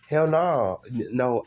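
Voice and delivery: sharp high "hell no"; emphatic refusal. Real, not acted. Reacting to chat.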